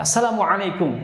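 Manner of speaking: "Assalamualaikum" with the ain clearly voiced; correct greeting. Shown as a demonstration. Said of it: "salamnya benar". ("Assalamualaikum" yang benar, pakai ain)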